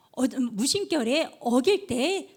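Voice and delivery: ordinary talk, nothing marked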